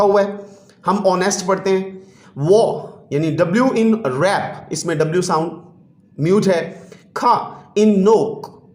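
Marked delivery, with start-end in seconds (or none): 1.1-1.5 honest, starting straight on the O; silent H in honest. Shown as a demonstration. Teacher showing children the mute H, honest with H silent. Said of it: "इसमें हम एच को नहीं पढ़ते". 8.0-8.7 first K left unsounded; silent K. Shown as a demonstration. Teacher giving a mute-letter example, first K silent. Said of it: "इसमें first के हम नहीं pronounce करते".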